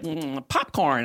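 slow, drawn-out musing; musing doctor. Retold or imitated. Doctor musing over his laptop, slowly. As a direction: savour the word slowly. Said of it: "he was like".

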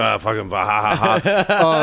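put-on pirate villain's laughter; mock gloating laugh. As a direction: laugh in mockery like a pirate jailer.

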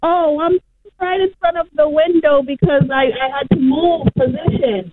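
muffled, like in a tunnel; phone held right at the mouth; cave echo. Real, not acted. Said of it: "You sound like you may be in a tunnel".

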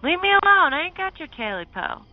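high, scared yell; yelling back. Acted. Smitty yelling back at the creature, high and scared. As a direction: shout it back at the thing. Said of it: "Smitty yelled back".

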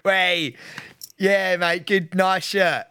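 mock laddish greeting to a mate; lightly put-on lad voice; lad banter. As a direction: imitate a bloke's matey banter, slowing on the compliment. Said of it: "Pete turns to lad banter".

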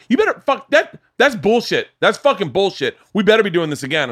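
very high-pitched imitation of an irate woman; mock shrill-pitched rant; retold angry yelling. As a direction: mimic her tirade, pitch shooting way up. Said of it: "She yelled at me".

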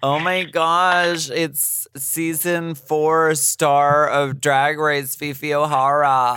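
slow, high hyped announcer. Acted. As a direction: build her up like a host. Announcing the guest.

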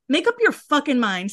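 fed up, venting at hypocrites; mildly angry outburst; mad. Real, not acted. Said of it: "Sorry, I'm so mad".

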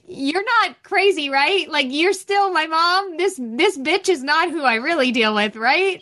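lightly imitated kid checking on mom; fearful child seeking reassurance. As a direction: seek reassurance with a nervous smile. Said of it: "like, fear".

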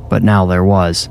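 usual speaking voice

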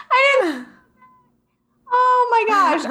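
giggling through the words; laughing. Real, not acted. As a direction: laugh it out, caught out. Laughing at being caught.

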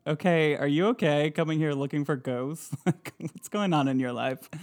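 a hint of sassy mock; sassy ghost. Mild sassy ghost mocking visitors. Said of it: "a sassy ghost being like".

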